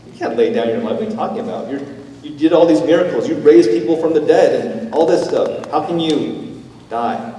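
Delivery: high, loud protest from stunned followers; disbelieving disciples. Retold or imitated. Pastor voicing the disciples' protest, loud and disbelieving. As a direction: cry out that it cannot be. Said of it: "they're like".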